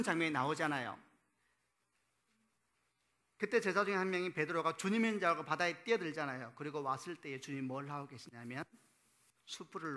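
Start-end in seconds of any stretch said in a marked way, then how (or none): none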